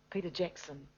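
ordinary talk, nothing marked

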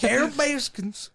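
slow, drawn-out mock name; Joe Exotic Trump hybrid. Imitating the podcaster's hybrid, drawn out slowly. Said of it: "It sounds like Cartman".

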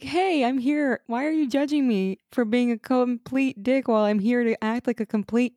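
sarcastic impression of an arrogant complainer; mocking Arthur. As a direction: parody a jerk playing the wronged party. Sarcastically voicing Arthur's self-righteous complaint.

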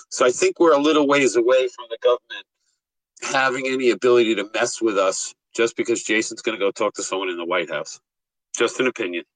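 tinny voice, like in a tin can; thin voice no bass, tin can sound. Real, not acted. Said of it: "you sound like you're in a tin can".

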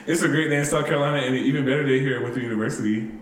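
white voice. Shown as a demonstration. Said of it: "Go ahead, do it".

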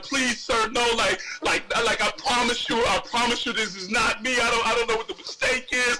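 lightly acted frightened plea; mock spooked pleading. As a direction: plead nervously, stumbling over the words. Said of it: "I'm over here like I'm spooked".

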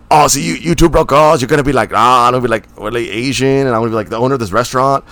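put-on Asian accent, hammed up; mock Asian accent. Actor auditioning to play the restaurant owner, mock Asian accent. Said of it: "Do an Asian accent".

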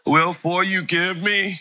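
put-on slow childlike pleading; little kid's mixed-up words. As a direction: gently mimic a small boy's jumbled apology. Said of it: "he used to say".

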